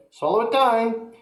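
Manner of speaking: eager urging. A narrator's reading. George urging grandma to swallow, high. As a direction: urge her on gleefully.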